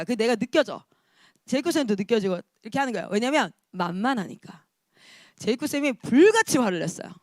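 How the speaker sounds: ordinary delivery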